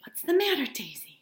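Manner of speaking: startled call to a friend; alarmed question. Acted. Jordan startled, asking drunk Daisy what's wrong.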